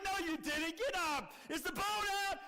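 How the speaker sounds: father refusing to believe his son; dismissive dad. Retold or imitated. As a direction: wave the boy's fear away. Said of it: "He's like".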